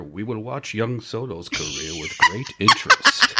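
slow, lightly voiced Palpatine; slow sinister emperor, softly menacing; a hint of Palpatine, drawn out; Palpatine impression. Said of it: "my best Palpatine".

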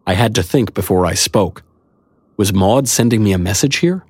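ordinary delivery, nothing marked

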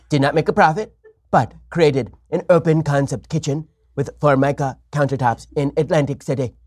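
lightly voiced Trump, boastful patter; Trump impression. Host recreating his Trump riff on flipping, light boastful voice. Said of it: "I just did a President Trump impersonation".

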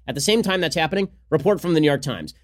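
ordinary talk, nothing marked

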